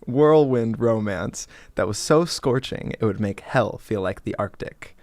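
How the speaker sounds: sexy reading voice. Pretend. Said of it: "do it very sexy".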